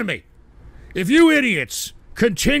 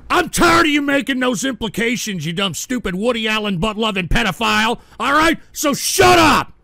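furious shout; 2 semitones higher, 4 dB louder than usual. Real, not acted. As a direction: shout the accuser down. Shouting down the donation voice.

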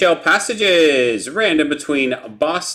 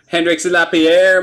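louder, raised French-accented name; 4 semitones higher, 5 dB louder than usual. Shown as a demonstration. Card breaker answering a request to say the name, French accent. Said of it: "Say the name with a French accent".

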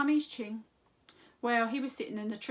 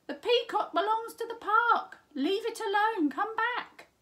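higher, louder pleading call; urgent warning; 12 semitones higher, 8 dB louder than usual. A narrator's reading. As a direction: warn him off before trouble. Ching warning Simpkin.

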